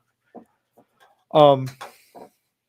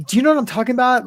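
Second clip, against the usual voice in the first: higher, put-on tough-guy voice; mock tough-guy voice; 7 semitones higher, much faster than usual. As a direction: parody his fake tough act. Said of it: "this weird thing with his mouth and his voice".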